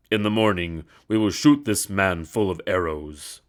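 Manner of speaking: angry emperor. A narrator's reading. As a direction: pronounce the punishment. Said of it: "he ordered".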